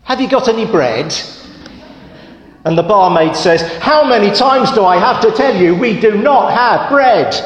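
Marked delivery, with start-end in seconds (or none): 0.0-1.1 higher, quick, pestering duck voice; a cheeky duck asking again and again. Acted. 3.8-7.3 higher, mock-exasperated scolding; a fed-up barmaid telling him off yet again.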